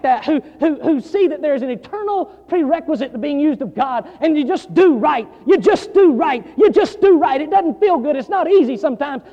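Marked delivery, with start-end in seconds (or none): 4.2-7.4 building refrain. Acted. Preacher pounding his congregation with the refrain, building louder. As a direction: drive the refrain home harder every time.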